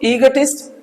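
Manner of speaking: ईगोटिस्ट said slowly, syllable by syllable; careful slow pronunciation. Shown as a demonstration. Teacher drills the class on ईगोटिस्ट, slow and careful. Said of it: "ओ की sound देना ही मत, अ की sound देना".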